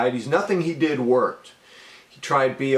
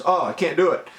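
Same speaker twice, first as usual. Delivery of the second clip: anxious outburst; 5 semitones higher, faster than usual. Real, not acted. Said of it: "just talking about this".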